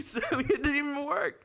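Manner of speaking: high, laugh-filled admission; laughing while talking. Real, not acted. Admitting the big tip didn't impress her, laughing. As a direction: crack up as you admit it. Laughing at his failed plan.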